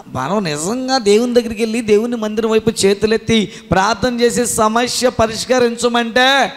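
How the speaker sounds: ordinary talk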